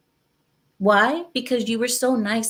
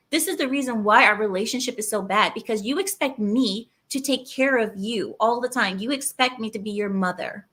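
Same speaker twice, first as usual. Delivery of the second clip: mock nagging wife. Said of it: "hear this from your woman".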